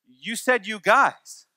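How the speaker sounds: put-on slow, deliberate little-girl reply; toddler lawyer. Daughter answering dad, slow and smug. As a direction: spell out the loophole like a tiny lawyer. Toddler argues a technicality back.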